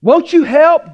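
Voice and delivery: hammed-up indignant disciples; sarcastic accusation. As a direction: needle him the way frightened disciples would. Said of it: "read between the lines".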